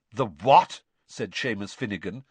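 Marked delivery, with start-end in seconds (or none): 0.1-0.8 loud disgusted "the what"; revolted. A narrator's reading. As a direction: recoil in disgust. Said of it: "sounding revolted".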